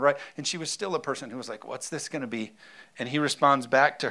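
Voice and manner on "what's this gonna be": doubtful Mary. Pretend. Mary's doubt voiced.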